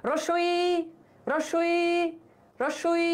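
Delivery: রস্যই with lips spread wide; spread vowel demo. Shown as a demonstration. Teacher shows spread lips on রস্যই. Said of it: "মুখ এমন হয়ে যায়".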